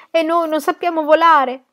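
loud, high wail of alarm; panicked cry. A narrator's reading. Fleeing the flood in terror. (grido acuto di panico)

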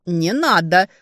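loud cry of no; shouted. A narrator's reading. Two voices cry out to stop the demon, shouting. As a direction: shout it, panicked. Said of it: "выкрикнули мы".

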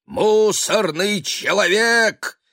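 high, slow, loud summons; summoning shout. Acted. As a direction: call it out grandly. Cat summons the trash man.

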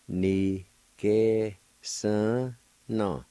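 "ni, ke, sun, na" each syllable set apart. Shown as a demonstration. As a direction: spell out "ni, ke, sun, na" by sound. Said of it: "Second part".

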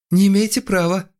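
very high, loud squeal; high-pitched narrated yelp; squealed protest. A narrator's reading. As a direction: shriek it in indignant protest. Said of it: "взвизгнул Стас".

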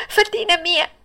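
very high, longing call. Acted. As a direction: stretch the call up toward her. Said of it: "si provò a gridare".

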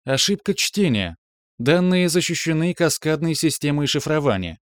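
parry like a calm machine; metallic computer voice. Acted. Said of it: "парировал металлический голос".

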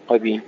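"قبي" as qabi, the b given an i; wrong voweled ba. Shown as a demonstration. Teacher showing the error, "قبي" with vowel on ba. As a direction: let the ب of "قبي" slip into a vowel. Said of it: "لا تقول قبلك".

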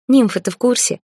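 high, loud teasing jab; mocking. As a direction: needle him with a mocking lilt. Mocking his pink underpants.

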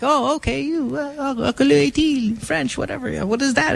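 lightly acted, high-pitched traveler; puzzled traveler.

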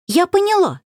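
high, bright exclamation of sudden realisation; exclaiming. Acted. Varenka exclaims to her cousin, high and eager. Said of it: "воскликнула она".

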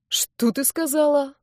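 outraged disbelief at the insult; indignant. Acted. Boy outraged at being called a hog, slow indignant question. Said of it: "возмутился парень".

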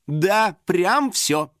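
very slow, falling cut-off; curt snap. A narrator's reading. Vlogger cuts the girl off, curt and final. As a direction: shut the question down. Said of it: "отрезала Лиза Мяу".

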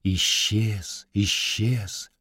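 fading echo. Acted. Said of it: "И эхо пронесло курганом".

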